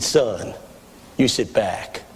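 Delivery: put-on low, hushed, unhurried old-timer; quiet, deep confidence of a veteran preacher, imitated; old pastor. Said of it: "my pastor squeezed my knee".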